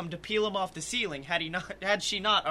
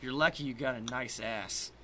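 low grumble into a glass; sulky, lowered aside; grumbling; 4 semitones lower, 4 dB quieter than usual. Acted. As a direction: grumble it under your breath. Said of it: "grumbling into my glass".

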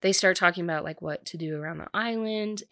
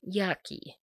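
grossed-out yucky; 3 semitones higher, 3 dB quieter than usual. Real, not acted. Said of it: "that's just the word, like, yucky".

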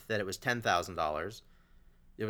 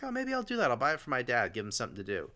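smooth talker; faster than usual. Retold or imitated. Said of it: "a real smooth talker".

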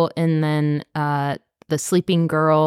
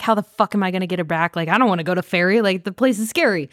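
quick, mildly panicky retelling; retold freaking out; faster than usual. Co-host voicing Elias pacing back and forth, mildly freaking out. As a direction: rattle it off like mock fretting. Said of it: "freaking out and pacing back and forth".

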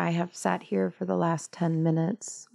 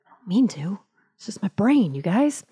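sheepish whisper; 3 semitones higher than usual. Real, not acted. Sheepish aside about mimicking accents.

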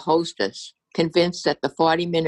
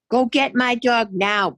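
put-on high demanding child's bellow; bratty kid bellowing an order; 7 semitones higher than usual. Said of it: "bellowed one such pint-sized prodigy".

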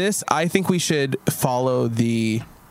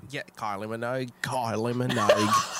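put-on Australian accent. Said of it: "it's Australian".

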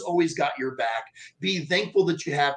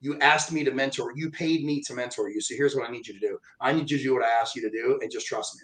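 imitating a mentor, lower and softening; lightly voiced firm, calm reassurance; 4 semitones lower, 4 dB quieter than usual. Mentor calmly answering the upset mentee.

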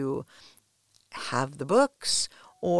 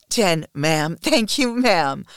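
wail; 5 dB louder, slower than usual. Acted. Submissive counting the last stroke, pained wail. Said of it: "I wail".

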